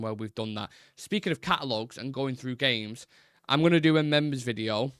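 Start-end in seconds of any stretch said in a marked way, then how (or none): 3.5-4.9 lightly hammed-up Italian accent; playful hint of Italian accent; mock Italian accent. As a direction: put on a slight jokey Italian lilt. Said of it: "I don't know why I'm doing that".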